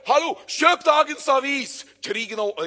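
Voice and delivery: high, loud newsboy yell. Acted. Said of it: "begynner å rope høyere".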